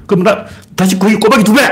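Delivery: high-pitched hammed-up counter-raise; mock bidding. Another man doubles the bet, hammed-up bidding. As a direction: top the rival's bid with mock gusto. Acting out escalating betting-style badmouthing.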